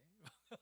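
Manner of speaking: brief laugh at oneself; self-amused chuckle. Real, not acted. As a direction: chuckle at your own fretting. Laughs at own worrying. (스스로 우스워 피식 웃음)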